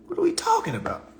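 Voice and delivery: hushed, breathy repeat of the question; whispered aside. Real, not acted. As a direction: mutter it to yourself in disbelief. Aside in disbelief.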